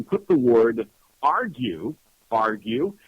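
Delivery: slow, with argue stressed and repeated; spelling out a keyword. Shown as a demonstration. Host tells listeners the subject-line word, slow and stressed. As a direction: lean on the word argue and say it twice. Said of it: "Now, write this down".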